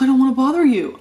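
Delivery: high, loud mock-sheepish voice; meek son. Mom imitating her son's sheepish reply, high and loud.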